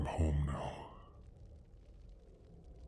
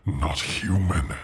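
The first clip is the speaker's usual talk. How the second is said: louder, slow, HUMAN spat out with a falling tone; scornful emphasis; 7 dB louder than usual. Acted. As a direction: lean hard on the word human with contempt.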